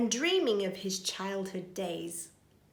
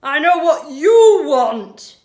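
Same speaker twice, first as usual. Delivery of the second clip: laughing; 6 semitones higher, 17 dB louder, slower than usual. Acted. Burglar laughing at smell.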